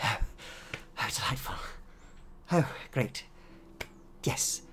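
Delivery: mild delight and gratitude; delighted scientist. Acted. Scientist thanks them for the brain, mildly delighted.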